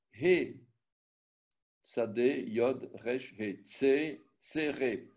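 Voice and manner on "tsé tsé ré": "tsé" with a clean e, then "ré"; syllable by syllable. Shown as a demonstration. Teacher showing the right vowel, syllable by syllable. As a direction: split "tséré" into its parts. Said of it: "On ne dit pas tsei".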